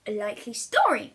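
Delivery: loud, dry, sceptical mother. Acted. Mother brushing off William's excuse, loud and dry. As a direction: dismiss his excuse outright. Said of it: "Mother would declare".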